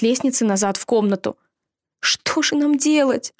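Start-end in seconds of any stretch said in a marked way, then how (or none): 2.0-3.3 high, slow, gasped fright; gasping in fear. Acted. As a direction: gasp it out, scared. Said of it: "ахнул Джон".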